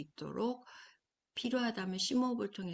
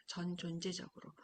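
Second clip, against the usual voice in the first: 속삭이는 반복; 6 dB quieter than usual. Shown as a demonstration. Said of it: "이게 진짜 경청이에요".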